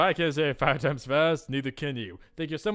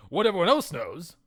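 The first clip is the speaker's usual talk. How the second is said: higher, rising disbelief; incredulous repeat, pitched up; indignant echo; 5 semitones higher, 4 dB louder than usual. Acted. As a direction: throw it back as an affronted question. Indignant echo of what was said.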